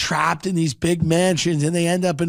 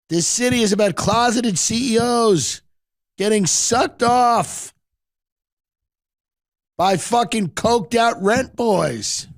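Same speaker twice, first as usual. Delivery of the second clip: Rick speech; 4 semitones higher than usual. Retold or imitated. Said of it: "He's like".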